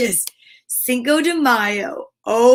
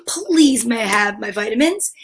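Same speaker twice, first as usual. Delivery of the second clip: put-on polite child asking. Shown as a demonstration. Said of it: "Then you say".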